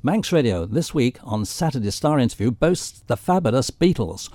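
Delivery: re-enacted radio promo with big pitch swings; radio announcer. Presenter trailing his exclusive interview with a famous band, radio announcer style. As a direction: announce it proudly, punching the star's name. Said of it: "I was able to say".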